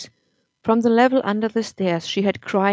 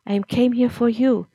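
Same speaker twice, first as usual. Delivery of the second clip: stammering; 4 semitones higher, 4 dB louder than usual. Acted. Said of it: "she stammered".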